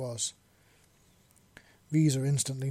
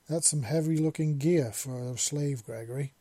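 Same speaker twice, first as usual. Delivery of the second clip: skeptical; 4 dB louder than usual. Acted. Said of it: "Wisp said skeptically".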